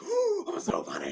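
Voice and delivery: high, slow smug coo; smug mock self-praise. Author proud of making husband laugh, high smug coo. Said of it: "I'm like".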